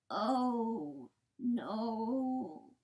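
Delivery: long drawn-out swooping moan; grieving disbelief. A narrator's reading. Coyote turning from the bodies, grieving disbelief. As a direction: moan it slowly, in shock.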